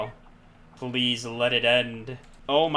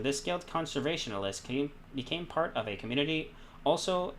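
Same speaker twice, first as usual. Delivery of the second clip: character profile read-aloud; 4 semitones higher than usual. Acted. Reads character description aloud.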